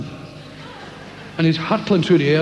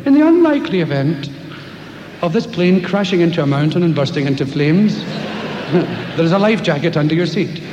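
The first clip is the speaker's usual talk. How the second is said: mock flight safety announcement. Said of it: "they always say that when you're in airplanes".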